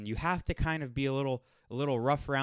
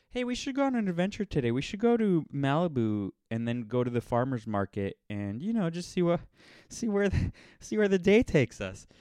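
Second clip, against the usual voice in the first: high-pitched, airheaded LA impression; mock a carefree Los Angeles day-tripper, with a laugh; mock LA adventurer; 6 semitones higher than usual. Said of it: "you hear people talk about in Los Angeles".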